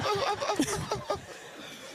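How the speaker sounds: a soft, high laugh; light real giggle. Real, not acted. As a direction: giggle nervously before going on. Laughing before telling the diagnosis.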